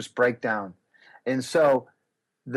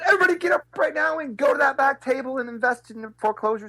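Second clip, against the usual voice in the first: higher, shouted call to the audience; retold rallying shout; 11 semitones higher, 3 dB louder than usual. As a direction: fire up the crowd to rush the back table. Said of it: "I said".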